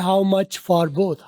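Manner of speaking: how much for both, for said as a weak f with no r; slow, linked teaching delivery; slow linked phrase. Shown as a demonstration. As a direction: drop the r of for and glide into both. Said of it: "For जो है उसका फ- ... ओ आर की लव उड़ा दी".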